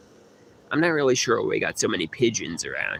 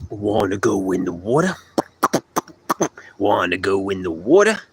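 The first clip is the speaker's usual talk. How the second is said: fake Brooklyn accent; 2 semitones lower than usual. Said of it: "They like Brooklyn accents".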